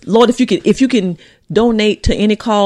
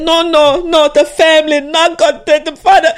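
higher, louder, anguished quoted cries; retold breakdown plea; 6 semitones higher, 4 dB louder than usual. Co-host retelling a father seized outside his car, anguished pleading. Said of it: "then he break down, he fall on his knees".

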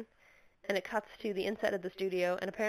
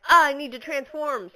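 hammed-up villain; 5 semitones higher, 9 dB louder than usual. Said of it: "Kyurien is like".

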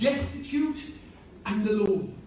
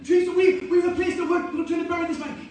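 louder, higher protest; exasperated mourners objecting to Jesus; indignant mourners' protest; 5 semitones higher, 6 dB louder than usual. Pretend. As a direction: complain like annoyed mourners.

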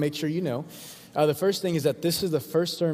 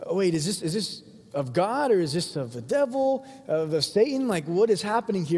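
higher-pitched, baffled questions; mock bewilderment, pitched up; confused questioning; 4 semitones higher than usual. Crowd asking about Jesus's miracles, confused questioning. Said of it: "the Pharisees and the people are asking".

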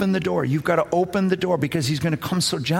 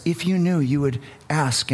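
a gentle invitation, trailing lower; 3 semitones lower than usual. Retold or imitated. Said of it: "He just gently".

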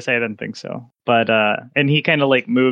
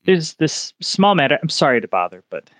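nervous clerk voice; 4 semitones higher than usual. Acted.

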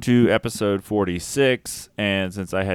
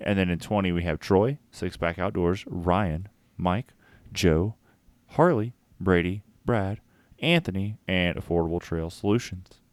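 a hint of late-night radio crooner reading names; smooth late night voice; 3 semitones lower than usual. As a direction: ease into a lightly voiced smooth night DJ read. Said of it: "my smooth late night voice".

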